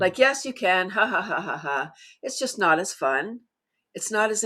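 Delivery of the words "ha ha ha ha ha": deliberate, half-hearted ha-ha laugh; spoken laugh at everyday pitch; demonstrated solo laugh. Shown as a demonstration. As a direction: show laughing as a chore.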